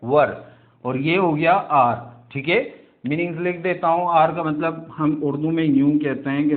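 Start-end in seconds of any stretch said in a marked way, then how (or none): 0.0-0.4 short one-syllable वर for were; right pronunciation. Shown as a demonstration. Teacher answers his own question with the correct वर. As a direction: give वर as a clean single syllable. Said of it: "इसका तलफ़ुज़ क्या है?".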